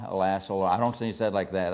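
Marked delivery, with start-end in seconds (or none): 0.1-0.7 low, soft and calm; a quiet, composed plea with no urgency; calm, subdued Alas; said calmly. Shown as a demonstration. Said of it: "you don't think he said calmly".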